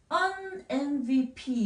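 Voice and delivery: "un M V P" slowly as an em-vee-pee; demonstrated phrase. Shown as a demonstration. Teacher models an before MVP, stretched demonstration. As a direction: draw out "un M V P" with a clear n before em. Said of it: "이렇게 표현하게 됩니다".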